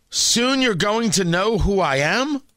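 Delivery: slow quote turned into a rising question; incredulous. Retold or imitated. Commentator asking what kind of statement this is, incredulous. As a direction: repeat it slowly, as if questioning it.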